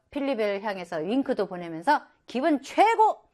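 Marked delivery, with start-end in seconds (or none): 2.3-3.2 bright, higher boasting cry; proud boast. Acted. Dad boasting to reporters after the finish, proud and high. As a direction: crow it out like a proud winner. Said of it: "막 이러면서, 예, 자랑을 합니다".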